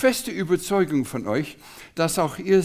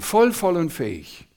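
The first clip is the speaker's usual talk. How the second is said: "voll" repeated with weight; stress on voll. Shown as a demonstration. Preacher savouring the words, stress on "voll". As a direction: press on "voll, voll". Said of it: "Er macht es mit Betonung".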